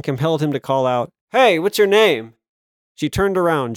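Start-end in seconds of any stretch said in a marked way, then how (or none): 1.3-2.3 calling out. Acted. Calling out to jogging woman.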